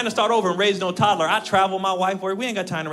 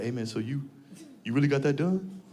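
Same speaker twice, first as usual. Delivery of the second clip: discreet asking; 6 semitones lower, 8 dB quieter than usual. Retold or imitated. Man discreetly asks about vasectomy.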